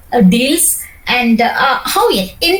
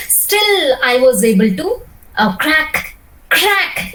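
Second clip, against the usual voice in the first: "crack" lifted and pushed with a rising tune; stress on crack; 2 semitones higher, slower than usual. Shown as a demonstration. Coach tells the trainee to lift and stress "crack". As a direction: punch "crack" with a rise. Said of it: "again, crack that word".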